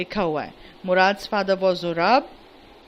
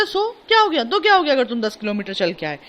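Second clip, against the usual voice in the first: mock outburst; 3 dB louder than usual. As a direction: toss it off like a big deal. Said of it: "तो कहता".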